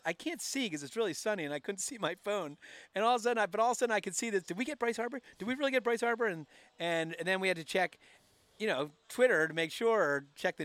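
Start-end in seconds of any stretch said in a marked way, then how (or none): 4.4-6.3 retold amazement, pitched higher; higher, incredulous questioning; excited disbelief. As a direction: ask it as if you can hardly believe it. Reacting to news of the signing.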